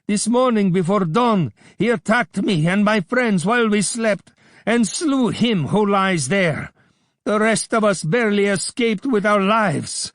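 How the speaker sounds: high, loud screech of a hateful man; vulture-like Abdullah screeching; screeching accuser. A narrator's reading. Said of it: "he screeched".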